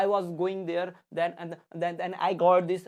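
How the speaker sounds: stop-start English with hesitations; halting English. Shown as a demonstration. Teacher showing students what non-fluent English sounds like, halting. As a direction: stumble through the sentence like a nervous speaker. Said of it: "ये अटक अटक के जो बोल रहे हैं".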